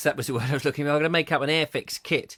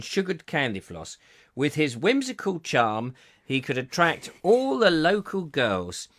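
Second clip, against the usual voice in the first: storybook reading. Acted. Reads a children's story card.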